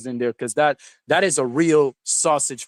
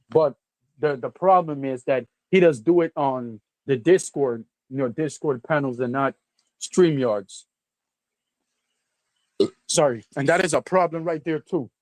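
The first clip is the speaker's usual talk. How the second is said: mouth full. Real, not acted. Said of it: "My mouth is full".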